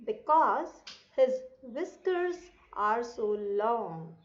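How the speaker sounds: measured phrase-by-phrase classroom reading; read-aloud lesson. Shown as a demonstration. Teacher reading a story for children to repeat, careful read-aloud. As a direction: read it out deliberately, pausing between phrases. Reads passage aloud to pupils.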